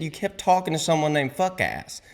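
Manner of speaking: high-pitched baffled explaining; retold incredulity. Buddy explaining what he overheard, incredulous. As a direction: imitate a buddy who can't believe it.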